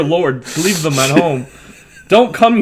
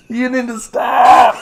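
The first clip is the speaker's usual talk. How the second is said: high, loud, drawn-out playful scolding; exasperated shout; 7 semitones higher, 5 dB louder, slower than usual. Real, not acted. Co-host telling his joking friend off, shouting slowly. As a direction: beg loudly for the joke to end.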